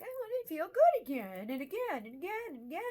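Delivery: acted high, loud craving, piling up each again; eager craving. Acts out chasing a high.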